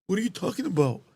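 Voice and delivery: a soft, put-on innocent voice; playing dumb. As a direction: mimic the scammer pretending not to know.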